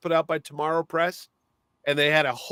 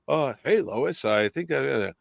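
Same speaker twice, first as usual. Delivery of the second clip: drops lower into a hero voice; Clark to Superman voice change; 4 semitones lower than usual. Retold or imitated. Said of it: "his voice would change".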